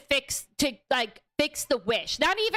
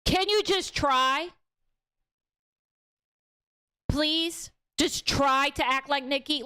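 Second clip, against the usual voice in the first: mock pleading. Bear begging the possessed Nikki, mock pleading. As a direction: nudge him to beg, pitched up. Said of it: "And he's like".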